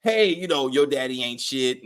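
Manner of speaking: lightly voiced mother, low and confiding; imitating mom. Mother talking in her child's ear, low retold nagging. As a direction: drop low like mom badmouthing dad. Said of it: "like my mom used to do".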